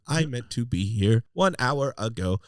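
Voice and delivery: slow stiff robot guest; toy robot voice. Pretend. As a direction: speak slowly like a robot. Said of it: "That's your next week's guest".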